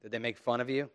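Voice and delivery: normal talking voice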